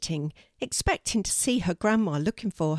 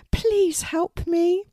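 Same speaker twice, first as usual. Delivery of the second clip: high, very slow plea; beg, stretching each word up high; pleading raven; 12 semitones higher, 4 dB louder, much slower than usual. Acted. Trapped Poppy begs Kelty for help, high pleading voice.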